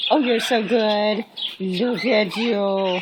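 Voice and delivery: tender praise. Real, not acted. Owner cooing praise at her parrot.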